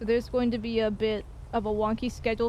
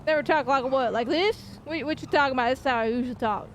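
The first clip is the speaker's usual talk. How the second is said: put-on raised-pitch Southern accent, playfully indignant; 3 semitones higher than usual. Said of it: "gotta do your southern accent".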